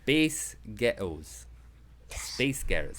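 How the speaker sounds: drawn-out mock Scottish girl; American vowels passing as Scottish; trick Scottish accent. Shown as a demonstration. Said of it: "sound like a Scottish girl".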